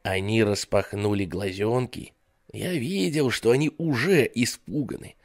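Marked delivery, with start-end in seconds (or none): none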